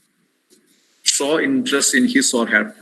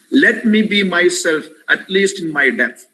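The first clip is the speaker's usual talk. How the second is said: mild sad; 6 semitones higher, 3 dB louder than usual. Retold or imitated. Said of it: "desperate situation that this child".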